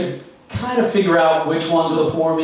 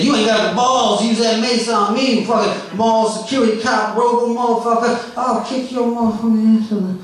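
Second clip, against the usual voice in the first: impression of rambling comic, higher; 4 semitones higher than usual. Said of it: "I'm going to do his set for you right now, verbatim".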